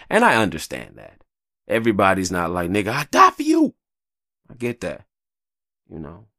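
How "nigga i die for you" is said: high, loud ride-or-die vow; high, loud promise to die for a friend; loyal declaration. Retold or imitated. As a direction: swear loyalty like a brother.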